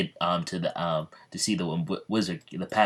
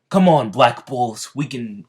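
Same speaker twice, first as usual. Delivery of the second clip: rallying call; 4 semitones higher, 9 dB louder than usual. Acted. Yami rallying his squad.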